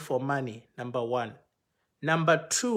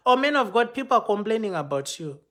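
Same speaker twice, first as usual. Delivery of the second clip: raised, pointed "man of God" call; accusing pastors; 5 semitones higher, 4 dB louder, faster than usual. Retold or imitated. Pastors accusing the speaker of complaints, raised and pointed. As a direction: confront him as a fellow pastor would.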